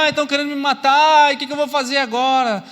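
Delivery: mock-panicked wail, pitched high; panicked Elias. Elias cries out in the cave, fearing death, mock panic.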